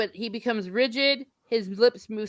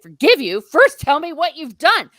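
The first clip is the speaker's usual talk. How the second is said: loud, high, indignant retort; stern demand; 8 semitones higher, 8 dB louder than usual. Acted. Gandalf demanding Pippin confess what he has done, sternly. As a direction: raise your voice and demand answers.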